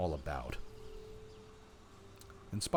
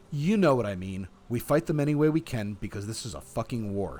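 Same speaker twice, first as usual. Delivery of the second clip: heated, louder insistence; spat out; 7 dB louder than usual. A narrator's reading. Olga insisting to Cornell it's war, spat out. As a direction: push it out with angry force. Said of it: "she spat".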